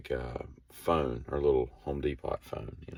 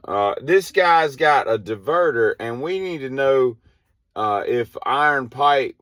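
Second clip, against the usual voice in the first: radio question; 8 semitones higher, 7 dB louder than usual. Retold or imitated. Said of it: "she calls up".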